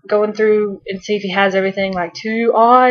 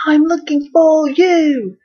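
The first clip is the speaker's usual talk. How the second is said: 1 Doctor slow; 7 semitones higher, 3 dB louder, slower than usual. Retold or imitated. Donna Doctor back and forth.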